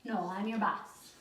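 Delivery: slow, firm and serious. Shown as a demonstration. Trainer telling puppy who's boss, slow and serious. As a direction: lay down the law, slowly. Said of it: "bring it to a serious tone and say".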